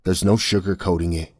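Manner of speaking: a touch of a hissed, bitter warning. Acted. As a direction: spit it out grimly.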